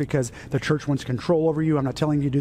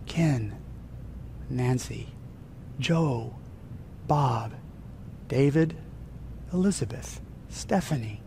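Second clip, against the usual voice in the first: low, gentle names with long pauses; calling by name; 3 semitones lower, 6 dB quieter, slower than usual. Acted. God calls each member of the congregation, gentle naming. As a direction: call each person softly, one by one. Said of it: "He calls you by name".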